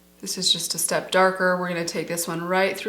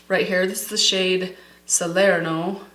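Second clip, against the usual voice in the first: put-on a light joking Italian accent on the shade name; mock Italian accent. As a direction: roll out Salerno like a hammed-up Italian. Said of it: "I'm trying to put on my best Italian accent".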